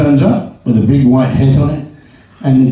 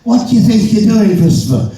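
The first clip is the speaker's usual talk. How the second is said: high, outraged teacher scolding; hammed-up shocked schoolteacher; teacher goes mad; 8 semitones higher than usual. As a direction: tell the boy off in mock fury. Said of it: "And the teacher goes mad".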